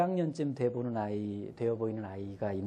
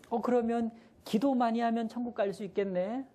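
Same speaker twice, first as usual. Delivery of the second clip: much higher coaxing teacher voice; higher teacher voice to little kids; teacher asking kids; 11 semitones higher than usual. Retold or imitated. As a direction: ask sweetly like a kindergarten teacher. Teacher asks kindergarteners.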